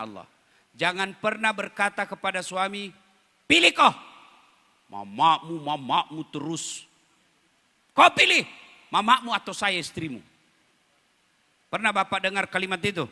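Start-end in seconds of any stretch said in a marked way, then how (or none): 3.5-10.2 mock nagging wife. Wife nagging husband, imitated.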